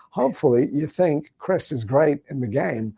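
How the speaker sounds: halting oddly phrased Walken cadence; a light Christopher Walken impression. Shown as a demonstration. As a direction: pause in strange places like Walken. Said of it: "doing Christopher Walken's voice".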